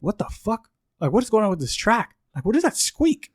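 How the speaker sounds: high-pitched exasperation at normal volume; retold annoyance. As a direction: mimic yourself griping at a track, pitch climbing. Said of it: "I'm getting pissed off the whole time".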